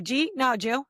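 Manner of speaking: "Gee" as a run-together "jeet", "Jew" for "did you"; "Gee, no, Jew" squashed into tiny syllables; local slurred question and answer. Retold or imitated. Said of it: "from where we're from is if they say".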